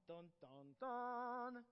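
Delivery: mock dramatic sting, last one loud and high; a playful dramatic drumroll; dun dun dun. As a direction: hum a suspense sting. Dramatic sound effect in story.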